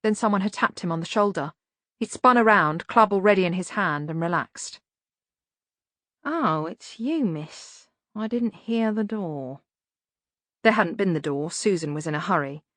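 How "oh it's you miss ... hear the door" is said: slow, rough servant voice; grumbling hunchback servant; Igor voice. A narrator's reading.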